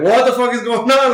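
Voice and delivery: mock shout of alarm; retold yell. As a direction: yell it like the villains caught off guard. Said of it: "like, yelling".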